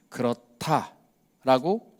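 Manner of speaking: slow, steady yes; calm slow answer. Retold or imitated. Jesus answering the leaders, slow calm reply. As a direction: answer simply and calmly.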